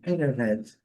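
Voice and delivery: "internet" said as "innernet"; swallowed T. Shown as a demonstration. Teacher showing how native speakers talk, T swallowed. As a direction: drop the first T in "internet". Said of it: "eles engolem o T".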